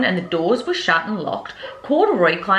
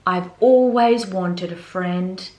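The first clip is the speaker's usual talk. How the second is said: slow, gentle wish come true; heartfelt; 2 semitones lower, slower than usual. Acted. Bear telling the girl he wanted a friend. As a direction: let it land slowly. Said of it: "said Corduroy".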